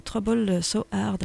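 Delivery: slow, careful English title in a French accent. Real, not acted. Radio host announcing the song title in French-accented English. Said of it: "pardon pour mon excellent accent".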